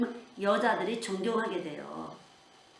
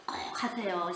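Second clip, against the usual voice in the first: a soft, intimate nudge; whispered urging; 3 semitones lower, 6 dB quieter, slower than usual. Real, not acted. Preacher whispers an urging to the congregation before prayer. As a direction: whisper 꼭 하세요 softly.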